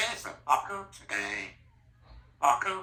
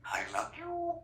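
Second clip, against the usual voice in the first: put-on talking to a baby; 3 semitones higher than usual. High-pitched talk to baby.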